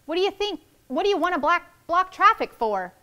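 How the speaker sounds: high, loud call from the limo window. Acted. Limo driver calling out to the crowd, loud and high. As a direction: yell out at the blocked street.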